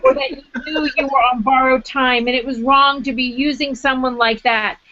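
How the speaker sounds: reading her essay aloud, lively and wry; story reading. Acted. Author reading her own chapter to the audience, lively.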